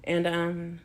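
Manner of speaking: talking while chewing gum; words around a piece of gum. Real, not acted. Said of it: "I'm chewing gum now".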